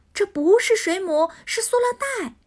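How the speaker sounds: quick, rising urgent explanation; rushing to warn the turtle; hurried explaining. Acted. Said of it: "赛弗连忙解释".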